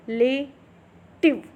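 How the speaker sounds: रिलेटिव stretched very slow, each syllable clear; slow demo. Shown as a demonstration. Teacher modelling रिलेटिव for students, very slow. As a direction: draw out रिलेटिव slowly. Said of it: "जैसे कि रिलेटिव है तो".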